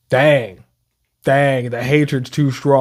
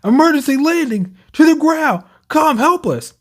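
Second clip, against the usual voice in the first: high robot voice; 11 semitones higher than usual. Retold or imitated. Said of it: "It says".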